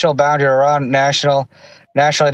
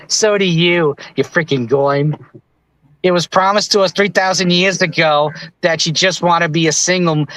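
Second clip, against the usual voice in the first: lightly put-on Jewish accent; a hint of a Jewish caricature voice. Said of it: "I do the Jewish voice".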